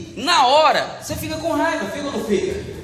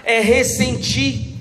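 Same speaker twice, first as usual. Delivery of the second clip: slow; much slower than usual. Shown as a demonstration. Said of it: "O que que é alimentar?".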